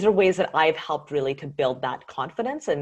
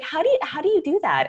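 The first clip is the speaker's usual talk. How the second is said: amazed question; 12 semitones higher, 4 dB louder, faster than usual. Retold or imitated. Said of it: "And I was like".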